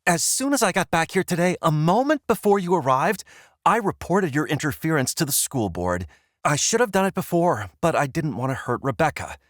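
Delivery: fast, high furious shouting. Acted. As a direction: rattle it off in a rage. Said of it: "She's shouting now".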